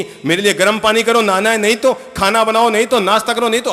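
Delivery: loud, high barked order; bossy husband. Retold or imitated. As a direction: command the new wife. पत्नी पति के हुक्म दोहराती. (पति का पत्नी पर रौब, ज़ोरदार हुक्म)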